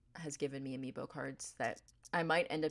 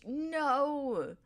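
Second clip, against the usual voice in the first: a higher, slow startled cry of no; a touch of real alarm; sudden no; 9 semitones higher, 4 dB louder than usual. Real, not acted. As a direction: blurt it as the piece slips. Desk building goes wrong.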